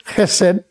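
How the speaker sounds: chesed with a raspy throat-scraped h; chesed, rough back-of-throat first sound; Hebrew throaty h. Shown as a demonstration. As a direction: say chesed, opening on a guttural kh. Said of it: "did you hear how I said it".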